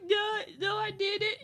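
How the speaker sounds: mock shouted protest. Protesting husband's reminder.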